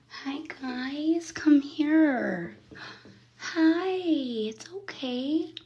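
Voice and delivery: high, coaxing talk to the cats; high pet talk. Real, not acted. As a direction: sweet-talk the kittens out of hiding.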